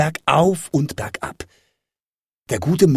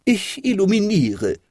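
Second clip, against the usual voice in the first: mild, high-pitched call; raised pitch, a gentle call-out; 6 semitones higher than usual. A narrator's reading. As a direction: call it lightly down from a tree. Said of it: "rief die kleine Katze herunter".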